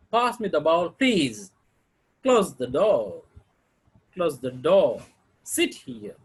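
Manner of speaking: requests falling on "please", "door", "here", "window". Shown as a demonstration. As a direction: let "door" and "window" drop at the end of each request. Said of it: "intended to sound like the request".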